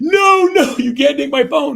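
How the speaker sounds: drawn-out, very high, very loud crying wail. Retelling a daughter's reaction to losing her phone: imitating screaming and crying. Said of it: "she starts screaming and crying".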